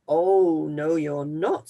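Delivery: loud gruff "oh, no"; troll refusing. Acted. Troll refusing the little goat, loud. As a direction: boom it out like a hungry troll.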